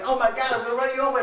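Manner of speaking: high, fast, loud squeal; shrill Tucker panic. Retold or imitated. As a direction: blurt it out in a frantic rush. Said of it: "And then he's like".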